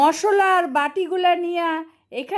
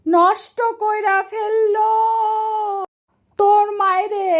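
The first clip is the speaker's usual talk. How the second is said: loud furious outburst; angry scolding; 3 semitones higher, 7 dB louder than usual. Real, not acted. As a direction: let the anger burst out. Aunt scolds kids over mess.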